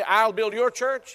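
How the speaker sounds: "I'll build your church" with your stressed and slow. Shown as a demonstration. Preacher showing wrong version: your stressed. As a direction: lean on your slowly. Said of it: "He did not say".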